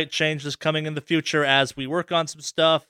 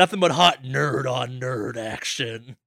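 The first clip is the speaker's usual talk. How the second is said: laughing mock pitch; 3 semitones lower, slower than usual. Joking gay porn pitch.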